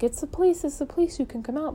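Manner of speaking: mock call to the hiding girls. Police calling into the house.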